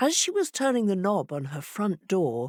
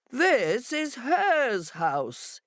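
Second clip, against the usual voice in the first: shout; 7 semitones higher, much slower than usual. A narrator's reading. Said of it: "he shouted".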